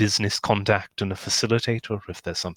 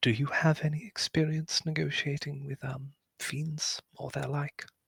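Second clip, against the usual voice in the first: lowered, hushed voice, pitched up slightly; 6 semitones higher, 6 dB quieter than usual. One character asks another a question aside, in a lowered voice. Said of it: "in a lower voice".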